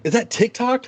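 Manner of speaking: high-pitched imitated question; mock nosy onlooker. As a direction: ask in a put-on high voice. Acting nosy cast member asking.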